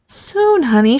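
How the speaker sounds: high, soothing motherly voice; reassuring. A narrator's reading. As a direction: soothe a pleading child. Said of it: "she reassured him".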